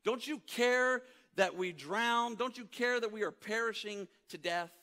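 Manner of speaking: high, loud pleading, slowing on the repeat; desperate plea. Retold or imitated. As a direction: cry out for help over the storm. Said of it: "that verse in Mark chapter four says".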